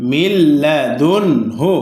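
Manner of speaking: slow recitation, plain unhummed ন in লাদুনহু; measured syllables, লাদুনহু with a clean n before hu; clear nun, no ghunna. Shown as a demonstration. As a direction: recite লাদুনহু slowly, ন said clearly without nasal hum. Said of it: "এ নুন সাকিন গুন্না হয়নি".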